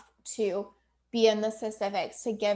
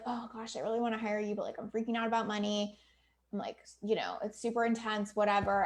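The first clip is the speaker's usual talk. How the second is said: softer, mildly fretful acted client; hesitant client; 6 dB quieter than usual. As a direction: confide a worry in a lowered voice. Voices hesitant client sharing money worry.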